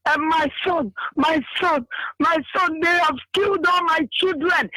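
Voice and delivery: high, wailing plea that breaks into a crying shout; imitating a mother sobbing out her grief. Bereaved mother crying to the leader, high wailing plea. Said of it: "She was crying and telling our leader".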